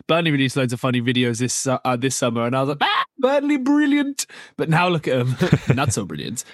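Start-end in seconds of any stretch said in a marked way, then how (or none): 2.8-4.2 high, put-on gushing voice; a high-pitched fake cheer; mock gushing. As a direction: gush sarcastically at Burnley. Mock praise of Burnley videos.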